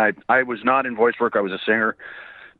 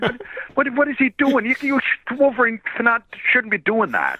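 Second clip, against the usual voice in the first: high-pitched, incredulous protest; mock indignation; 11 semitones higher than usual. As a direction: object in disbelief, voice jumping up high. Mock outrage at Wolverine dancing.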